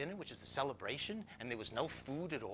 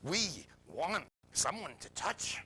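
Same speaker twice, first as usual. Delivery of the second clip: slow, louder, drawn-out craving; body's voice; 5 dB louder, slower than usual. Retold or imitated. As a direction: voice the body's longing, word by word. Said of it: "my body is saying".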